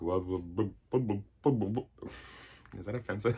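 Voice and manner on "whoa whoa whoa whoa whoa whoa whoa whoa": calm the crowd; lightly voiced Santa. Santa arriving, calling whoa to the reindeer. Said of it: "He's like".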